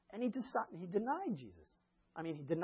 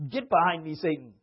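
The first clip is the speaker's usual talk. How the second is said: Jesus rebuking; 8 dB louder than usual. Retold or imitated.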